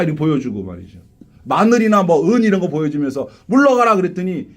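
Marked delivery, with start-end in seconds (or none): 3.5-4.0 loud commanding cry; a hammed-up priest banishing Dracula; mock exorcist command. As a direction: order the vampire away. Commanding with garlic.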